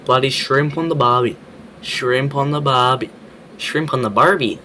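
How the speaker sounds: loud, hammed-up Australian catchphrase; hammed-up Aussie accent. Australian reacting to an American's video, hamming up an Aussie accent. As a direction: belt it out in broad mock-Aussie.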